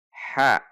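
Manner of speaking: "Ha" as a sharp Arabic ha from the middle of the throat; correct throaty ha. Shown as a demonstration. Teacher models the letter's articulation, mid-throat ha. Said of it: "Perhatikan sifat dan makhraj huruf ha".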